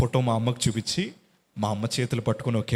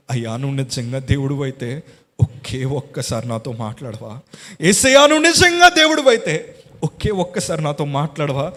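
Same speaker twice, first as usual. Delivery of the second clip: trembling tearful plea; 5 dB louder than usual. Retold or imitated. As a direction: beg God to speak, voice building. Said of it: "ఏడుస్తూ వణుకుపోతూ అడుగుతున్నాను". (వణుకుతూ ఏడుస్తూ ప్రార్థన)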